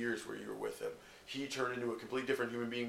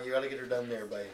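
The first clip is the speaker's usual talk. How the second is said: mock Canadian hoser; faster than usual. Canadian slang impression.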